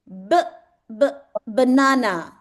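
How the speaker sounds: "B, b" with an exaggerated lip b, then "banana"; clear b sound demo. Shown as a demonstration. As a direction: show the mouth shape on "B, b" for the child. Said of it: "First, listen to me". ("B, b" पर होंठ साफ़ दिखाते हुए, फिर "banana")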